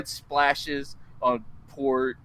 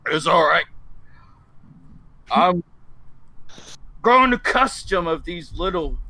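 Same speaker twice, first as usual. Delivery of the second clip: giant's voice; 4 dB louder than usual. Acted. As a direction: boom it out like a good-humoured giant. Giant voicing himself in tavern.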